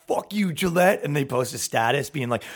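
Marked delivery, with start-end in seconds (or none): 0.1-1.0 tight, put-on outraged voice; mock outrage. Outraged poster cursing the razor company, mock outrage. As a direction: exaggerate an indignant online post.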